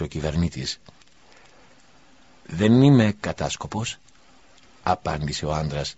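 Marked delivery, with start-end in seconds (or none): 2.5-4.0 firm denial. Acted. Prisoner denies being a spy.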